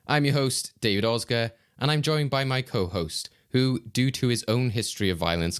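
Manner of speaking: lilting, presenter-style welcome; scripted opening with lifted phrase starts; podcast host introduction. Acted. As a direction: introduce the show and co-host with ceremony. Host delivers the scripted show opening.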